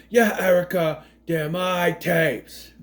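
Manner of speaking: lightly put-on Boston-New York accent, slowly drawn out; a hint of the actor's odd accent; quoting the line again. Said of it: "that's where we get".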